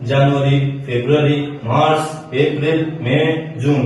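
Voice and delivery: months read evenly with full Bangla vowels. Shown as a demonstration. Teacher showing how learners usually say months, Bangla pronunciation. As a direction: recite the months the everyday Bangla way. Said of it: "সেখানে আমরা কিভাবে বলি".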